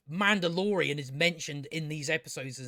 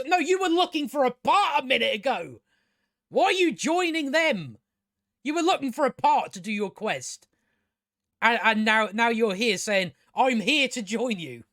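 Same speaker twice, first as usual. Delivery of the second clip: mock exasperated rant; 3 semitones higher than usual. Ranting at a confusing plot.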